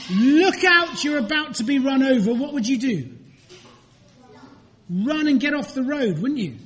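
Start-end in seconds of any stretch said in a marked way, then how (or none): 0.1-2.3 mock warning shout. Someone warning a walker in the road, mock shout. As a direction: call out a sudden warning, then rush on.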